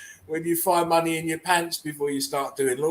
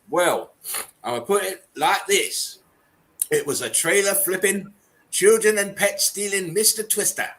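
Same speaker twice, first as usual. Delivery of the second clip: lightly put-on Southern redneck storyteller finishing with a big yell; 3 semitones higher, 3 dB louder than usual. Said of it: "I'm gonna try and read it in a redneck voice".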